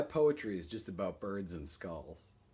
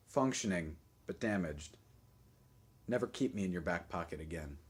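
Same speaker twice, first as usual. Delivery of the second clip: poetry reading; 6 semitones higher, 9 dB louder than usual. Acted. A dropped iPhone addresses its owner, dramatic recitation. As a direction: recite it solemnly, then let it drop away. Reads own poem aloud.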